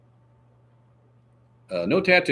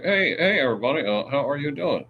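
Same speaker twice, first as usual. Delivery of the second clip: chin puppet voice; 5 semitones higher than usual. Pretend. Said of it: "draw the eyeballs on your".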